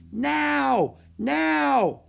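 high, loud urgent yells; shouting. A narrator's reading. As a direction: shout the order to a crowd. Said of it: "shouted Jack".

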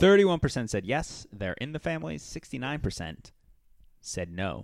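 bigger, livelier poll reading; announcing the result. Acted. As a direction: read it like a game show. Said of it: "No, let's redo that again".

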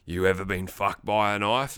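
very low creep voice; creepy whispered threat, imitated. Heath whispered in her ear, imitated as a low, creepy threat. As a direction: imitate a villain murmuring deep and low. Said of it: "Heath whispered in".

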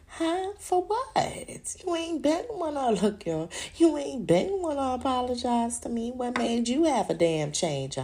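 shocked at the apology; incredulous. Retold or imitated. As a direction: scoff in disbelief.

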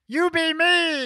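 high, slow ship voice; slow, lifted robot-ish helper voice; Little Sour voice. Acted.

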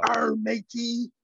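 slow pirate-like British accent; drawn-out, hammed-up bad British. Shown as a demonstration. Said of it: "wanna hear a bad British accent".

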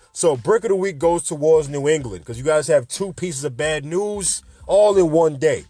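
attempted Boston accent; Matt Damon. Host scolds New England for bad news, Boston accent. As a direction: lay on a light Boston accent, stretching the end. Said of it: "try and sound like Matt Damon".

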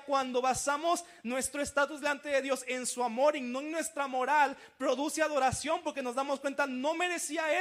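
proclama con fuerza, casi gritando; prédica enérgica. Acted. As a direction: predica a toda voz. Predicador exhorta con fuerza. (pastor exhortando a la congregación, con fuerza)

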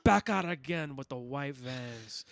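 slow, loud character call-out. Acted. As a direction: call it out loudly, stretching the words. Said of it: "he says very loudly".

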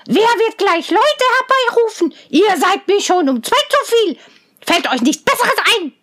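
hohe, zänkische Zwergenstimme; zänkischer Zwerg. A narrator's reading. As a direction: giftig schimpfen wie ein Zwerg. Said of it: "schnarchte der Zwerg". (Zwerg beschimpft Rosenrot, hoch und zänkisch)

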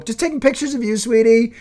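high, sing-song innocent voice; sweet fake innocence. Fake innocent reply to wife.

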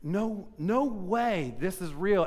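slow, stunned disbelief; slow mock disbelief at the pulpit. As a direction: stretch it out, unable to believe it. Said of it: "And I'm like".

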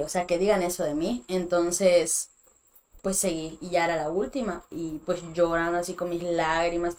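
ordinary delivery

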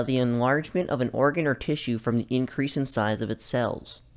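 lightly put-on technical reading voice. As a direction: read it like a formal definition. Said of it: "let me put on my technical voice".

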